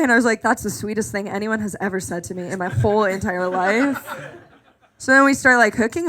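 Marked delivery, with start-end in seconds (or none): 0.4-4.0 softer, lower gushing; hushed lovestruck gush; dreamy mock sincerity; mock swoon. Swooning over his text.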